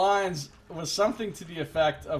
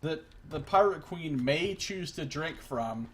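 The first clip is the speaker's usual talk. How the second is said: incredulous rant; 5 semitones higher, 5 dB louder than usual. Real, not acted. Ranting about the quest plan.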